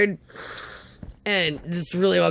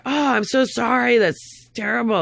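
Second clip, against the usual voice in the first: higher, mock-sympathetic receptionist quote; 5 semitones higher than usual. Receptionist consoling a crying caller, imitated sympathy.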